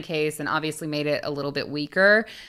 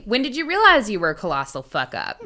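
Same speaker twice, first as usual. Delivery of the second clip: louder, taunting interrogation of a killer; mock angry interviewer; 4 dB louder than usual. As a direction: jeer at him like a furious interviewer.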